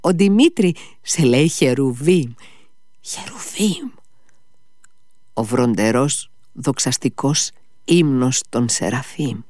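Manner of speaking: high, feverish, soaring then whispering; delirious rambling. A narrator's reading. Ivan rambling at his brother in fever, high delirious voice.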